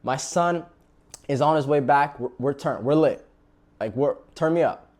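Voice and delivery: loud, high party shouting; overjoyed father. Retold or imitated. Father ordering a feast for his returning son, loud and overjoyed. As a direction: hype the whole house up. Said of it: "He said".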